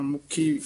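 ਮੁਖੀ with a tight doubled kh; short vowel, firm ਖ in ਮੁਖੀ; tight consonant. Shown as a demonstration. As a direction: press the ਖ in ਮੁਖੀ. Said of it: "ਕੱਸ ਕੇ ਹੀ ਬੋਲਣਾ".

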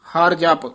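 "ਹਰ ਜਪ" as a closed phrase, then rest; full pause after. Shown as a demonstration. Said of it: "ਇੱਥੇ ਵਿਸਰਾਮ ਹੈ".

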